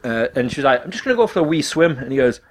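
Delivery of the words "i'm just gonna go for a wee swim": attempted Scottish accent, slightly higher; bad Scottish accent. Teller imitates housemate announcing a swim, bad Scottish accent. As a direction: put on a poor Scottish lilt. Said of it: "This is my really bad Scottish accent".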